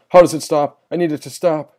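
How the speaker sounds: high, distressed pleading; desperate plea. A narrator's reading. Tormented sister wanting the noise to stop, high desperate plea.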